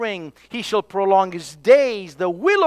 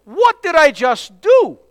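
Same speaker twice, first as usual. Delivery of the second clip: mock remorse; 8 semitones higher, 5 dB louder than usual. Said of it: "wake up one day and says".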